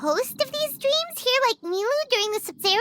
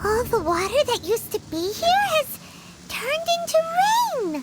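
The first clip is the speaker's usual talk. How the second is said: amazed; 3 semitones higher than usual. Acted. Paimon amazed at the rain.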